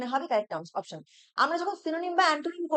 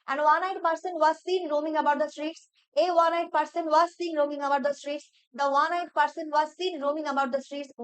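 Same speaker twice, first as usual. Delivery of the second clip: sentences read very slowly; slow dictation read; much slower than usual. Shown as a demonstration. Teacher reading each sentence slowly for students. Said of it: "আমি পুরো সেন্টেন্সটা একটা পড়ে নিচ্ছি".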